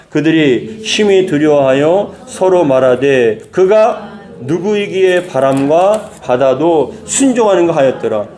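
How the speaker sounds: slow, solemn Bible reading; scripture reading aloud. Shown as a demonstration. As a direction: read the verse slowly for the congregation to follow. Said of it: "사십일 절 같이 읽겠습니다".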